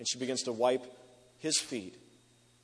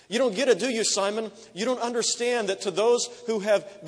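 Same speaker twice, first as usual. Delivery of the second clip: much higher and louder, almost shouting; loud rebuke; 9 semitones higher, 7 dB louder than usual. Acted. Jesus rebuking Simon before the dinner guests, near shout. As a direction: hurl the question at him.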